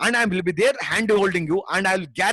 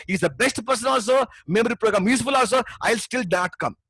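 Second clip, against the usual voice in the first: raised, urgent pitch of real conviction; passionate speaking; 3 semitones higher than usual. Real, not acted. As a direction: drive it home with full passion. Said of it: "You can see the passion with which I'm speaking right now".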